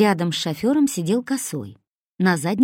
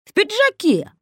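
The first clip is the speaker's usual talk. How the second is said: much higher, louder character yell; shouting; 5 dB louder than usual. A narrator's reading. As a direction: keep yelling the detail. Kosoy adds, still shouting. (крик, намного выше и громче)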